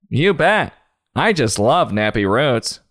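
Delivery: lightly mocking, lilting impostor voice; eager impostor. Acted impostor answering when challenged.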